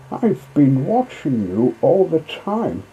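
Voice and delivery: mocking barge woman catching her breath; barge woman, gasping. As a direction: gasp it out between laughs. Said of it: "she gasped".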